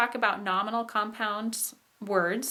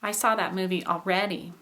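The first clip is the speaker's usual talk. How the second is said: rise-fall landing on "already"; "already" peaking on its middle syllable; high tone on ALREADY. Shown as a demonstration. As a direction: stress the "rea" in "already", then fall. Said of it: "put the high tone".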